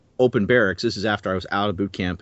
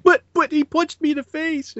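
very high falsetto tattletale whine; mock whining. Storyteller mimics the punched man complaining to the commander, high mock whine. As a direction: whine it as a squeaky, hammed-up protest.

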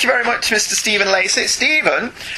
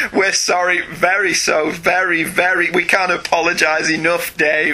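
mock apology; 2 semitones higher than usual. Real, not acted. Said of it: "terrible Irish accents".

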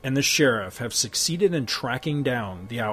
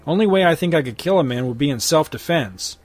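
louder, smug turncoat lawman; sneering sheriff; 3 semitones higher, 5 dB louder than usual. Acted. Crooked sheriff holding Hex at gunpoint, smug. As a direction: lord it over him.

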